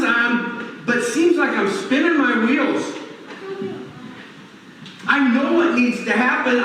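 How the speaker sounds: exasperated, rushing through the complaints; frustrated venting. Retold or imitated. Preacher voicing a frustrated believer, mildly exasperated. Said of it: "this frustrated feeling of".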